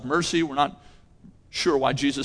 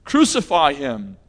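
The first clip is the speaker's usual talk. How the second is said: loud retold crowd shout; shouted back; 7 dB louder than usual. Crowd shouting back at Pilate: loud retold cry. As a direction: call out the crowd's cry, louder. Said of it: "they shout back".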